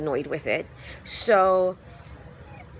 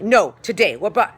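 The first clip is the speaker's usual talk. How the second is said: louder, snappy retold interruption; impatient doctor; 2 semitones higher, 7 dB louder than usual. Doctor interrupting a sick patient, mock impatient, louder. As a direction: cut in sharply, like a doctor who won't listen.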